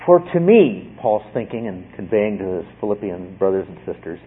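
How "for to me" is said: slow, weighty start of a quote; dramatic reading. Shown as a demonstration. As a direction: lean into each word. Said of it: "say it to you like I think Paul is intending to convey".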